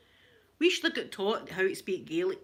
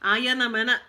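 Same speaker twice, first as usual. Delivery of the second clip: louder Glaswegian phrase as picked up by Japanese colleagues; imitated Japanese Glaswegian; 2 semitones higher, 6 dB louder than usual. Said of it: "getting a wee Glaswegian accent".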